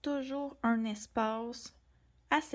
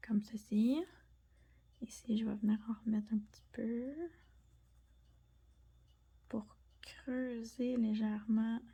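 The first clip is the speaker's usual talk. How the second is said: quick whispered aside while working. Real, not acted. Artist deepening the petal, whispering. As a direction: murmur it without voice. Drawing, murmuring while shading.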